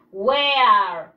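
"Wear" said loud and clear as one falling word; "Wear" pronounced slowly and clearly for Spanish-speaking pupils; pronunciation model. Shown as a demonstration. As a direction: say "Wear" firmly, as the model for the class. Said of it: "Y se pronuncia wear".

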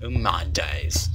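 slow, drawn-out try at an English accent. Shown as a demonstration. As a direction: have a go at an English accent, stretching each word. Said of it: "I'm trying different accents".

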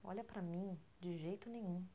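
normal talking voice

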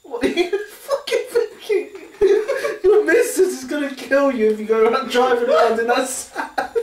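can't stop laughing; laughing through pain. Real, not acted. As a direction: giggle through every word. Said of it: "Can't stop laughing".

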